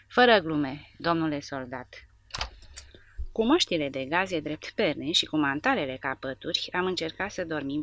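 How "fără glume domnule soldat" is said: reproachful. Acted. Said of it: "plin de reproș".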